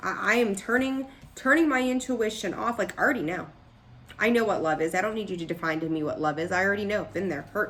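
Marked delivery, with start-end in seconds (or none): 2.8-7.0 know-it-all, dismissive, rushed in the middle. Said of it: "it's a know-it-all energy".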